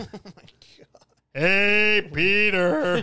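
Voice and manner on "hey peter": shouted, loud, drawn-out "hey", pitched up. Like a man repeating a cartoon impression again and again, trying to sound deeper but only getting louder and more strained. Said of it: "You just don't sound like".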